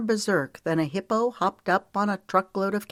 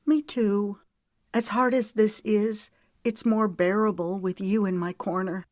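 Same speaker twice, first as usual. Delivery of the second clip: grateful heroine; 5 semitones higher than usual. Acted. Voices the heroine's reply.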